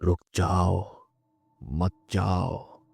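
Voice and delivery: put-on eerie hushed plea from the roadside girl; stretched-out spectral murmur, not fully whispered; ghostly whisper. A narrator's reading. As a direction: beg him to stay in a drawn-out, otherworldly hush. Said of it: "किसी के फुसफुसाने की आवाज़ आई".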